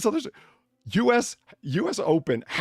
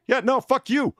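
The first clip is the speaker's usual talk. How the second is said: higher, louder smug dismissal; mock rude brush-off; 8 semitones higher, 5 dB louder than usual. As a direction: sneer at the kid. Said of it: "this guy's like".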